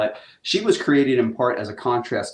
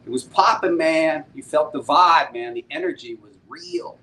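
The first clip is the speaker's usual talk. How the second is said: pitched up, louder, riding the hype; hyped echo; 4 semitones higher, 3 dB louder than usual. Real, not acted. Host echoes a chat fan's hype, excited and raised. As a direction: pump up the fan's word.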